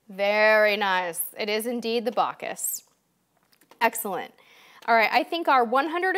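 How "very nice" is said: "Very nice" stretched slowly, savoring it; drawn out. Shown as a demonstration. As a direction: linger on "Very nice" with slow praise.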